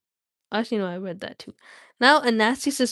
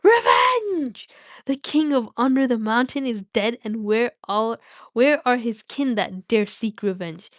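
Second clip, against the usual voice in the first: gloating dragon Smaug. Acted. Streamer voicing Smaug's boast in the Hobbit, booming. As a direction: boom it out like a proud old dragon. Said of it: "I could talk like that too".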